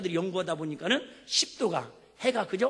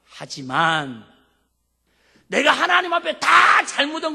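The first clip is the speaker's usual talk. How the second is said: higher, louder plea building to a shout; Hezekiah protesting; 4 semitones higher, 9 dB louder than usual. Acted. King Hezekiah arguing with God for his life, pleading shout. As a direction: argue with God, rising to a cry. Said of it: "이렇게 따집니다".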